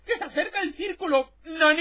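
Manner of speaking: high, loud panicked yell with a laugh; screaming about the circle. Retold or imitated. Gamer reliving the storm, panicked loud yell. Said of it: "empezamos a gritar como gilipollas".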